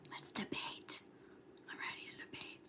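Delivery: hushed mock challenge; whisper. Real, not acted. Streamer challenging viewers while everyone's sleeping, whispering. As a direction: whisper it, ready to argue. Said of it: "I'll, like, whisper because everyone's sleeping".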